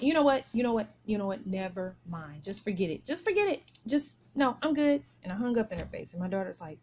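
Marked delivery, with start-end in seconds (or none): 0.0-5.0 mildly fed up, cutting the call off; retold upset. Woman hanging up on the caller mid-conversation, upset. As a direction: retell an exasperated brush-off in repeated starts. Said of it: "I was just upset at the moment".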